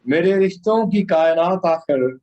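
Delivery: measured, solemn ghazal delivery; poetry recitation. Acted.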